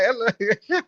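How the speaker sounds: laughing imitation of an affected American accent; put-on American accent. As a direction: mimic a Nigerian trying an American accent. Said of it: "they try to talk a different accent".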